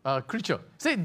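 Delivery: usual speaking voice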